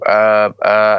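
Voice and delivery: hesitant retold stammer; stall, lost for an answer. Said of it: "and I'm stammering".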